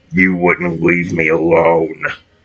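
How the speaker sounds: very deep, low, dark growling voice. Reading a story, voicing the Forager threatening a man: dark growl. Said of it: "Forager growled, his voice dark and echoing".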